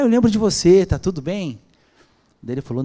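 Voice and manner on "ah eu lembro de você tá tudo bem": cheerful greeting. Retold or imitated. Cheerful greeting retold on phone.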